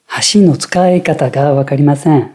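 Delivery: "Hashi" punched on HA at the start of the sentence; accent on first mora. Shown as a demonstration. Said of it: "accentuée au début".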